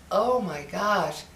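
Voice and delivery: slow, hushed awe; awestruck child. Retold or imitated. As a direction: breathe it out like a wide-eyed little girl. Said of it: "I was in awe".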